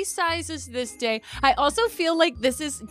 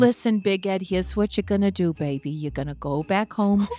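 deep ghostly voice; 8 semitones lower than usual. Acted. Voicing Abby's ghost via painting.

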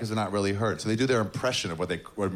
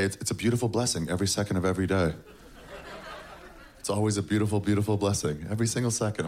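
gushing parent; 2 semitones lower, faster than usual. Retold or imitated. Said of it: "like, say".

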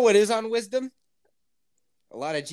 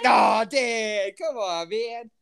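laughing protest; 3 semitones higher, much slower than usual. Retold or imitated. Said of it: "I was like".

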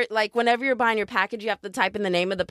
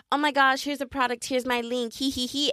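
perky seller; 4 semitones higher than usual. Retold or imitated. Voicing a perky product seller.

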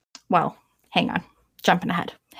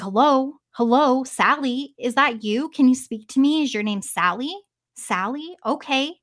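calling out to the ghost; 4 semitones higher than usual. Retold or imitated. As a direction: call up the empty stairs, coaxing a spirit to answer. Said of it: "And then in a normal voice".

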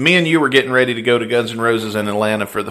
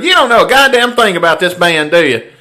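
raised-pitch, louder scolding; mock-exasperated DJ; 7 semitones higher, 5 dB louder than usual. DJ scolding a fan about the band, mock exasperation. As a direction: imitate a fed-up radio host telling someone off.

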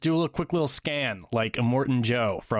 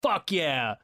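mildly pumped imitation, pitched up; stoked; 4 semitones higher than usual. Imitating war boys cheering on a stunt, mildly stoked. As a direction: lightly act out gung-ho approval. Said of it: "they're just stoked".

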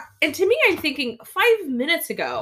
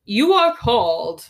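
proper English; 4 dB louder, slower than usual. Retold or imitated. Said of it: "It sounds really proper".

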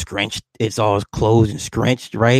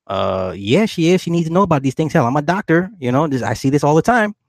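imitated doctor protesting, pitched up; mildly insistent doctor; 4 semitones higher than usual. Doctor overrules his wife about death talk, mildly insistent. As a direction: argue back a little higher, brushing off the worry.

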